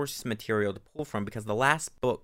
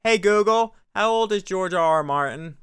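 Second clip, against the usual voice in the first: calling to smart speaker; 8 semitones higher, 5 dB louder than usual. Real, not acted.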